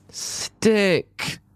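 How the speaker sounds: a very high, drawn-out stick; high sing-song stick. A narrator's reading. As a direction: ring it out as the last limb sticks. Sound of sticking, repeated.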